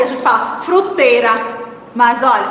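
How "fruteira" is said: "fruteira" run together as in everyday speech; everyday run-together pronunciation. Shown as a demonstration. Teacher shows how people say it, everyday run-together "fruteira". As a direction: say "fruteira" with the I half hidden. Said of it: "Quando a gente fala rápido".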